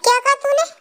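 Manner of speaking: shocked anger. Acted. Sister-in-law hears about club party.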